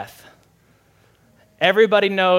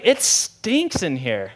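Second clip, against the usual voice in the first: disgusted complaint; much slower than usual. Retold or imitated. Grandpa complains about the stink.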